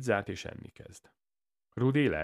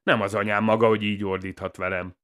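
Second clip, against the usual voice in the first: loud, higher-pitched scolding; affronted, raised voice; indignant retort; 4 semitones higher, 9 dB louder than usual. A narrator's reading. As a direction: tell him off sharply. Villain retorts to being shouted at.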